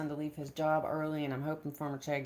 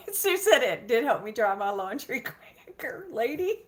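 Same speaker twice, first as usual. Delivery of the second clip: whispered laugh; 8 semitones higher, 5 dB louder than usual. Real, not acted. Laughing, reading a comment.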